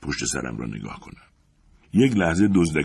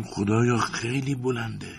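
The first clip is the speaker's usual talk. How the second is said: high, hushed, slow gasp of dread; panicked cry; 6 semitones higher, 4 dB quieter than usual. A narrator's reading. Climber looking back down at the height, panicked. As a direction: stretch it out high and soft in terror. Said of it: "سراسیمه و با وحشت به سمت جافی فریاد کردم".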